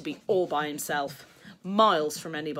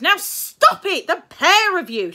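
high, loud, slow command; stern mother; 13 semitones higher, 12 dB louder, slower than usual. Acted. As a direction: stop the fight, at the end of her tether. Mother separating fighting boys.

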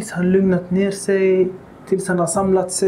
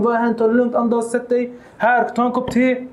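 soothing calm. Retold or imitated. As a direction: talk him down kindly. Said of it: "Nej, lugna ner honom".

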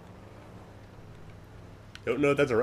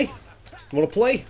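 slow, higher, stretched mocking sing-song; sing-song taunt; 8 semitones higher, much slower than usual. Real, not acted. Gamer mocking the cop he's beating, slow sing-song taunt. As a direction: drag it out to mock him.

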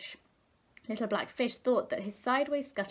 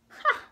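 laughing ha; 6 dB louder than usual. A narrator's reading. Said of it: "they laughed".

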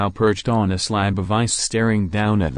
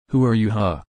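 angry. A narrator's reading. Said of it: "Toga asked angrily".

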